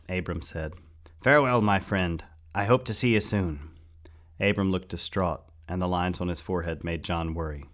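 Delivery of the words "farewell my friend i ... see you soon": hearty farewell. A narrator's reading. Abram bids friend farewell.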